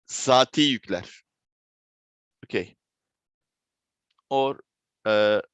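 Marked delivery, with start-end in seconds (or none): 0.1-1.1 zati yükler in Turkish pronunciation; Turkish term. Shown as a demonstration. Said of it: "in Turkish".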